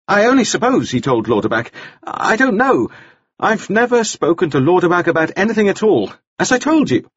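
put-on high, hesitant, stammering young man's voice; a flustered man spilling a secret; nervous Nielsen. A narrator's reading. Nielsen confessing the blackmail to the jailer, high and stammering.

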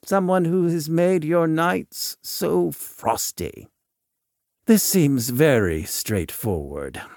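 Volk, probing. Acted. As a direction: probe the visitor with lifted, deliberate phrases.

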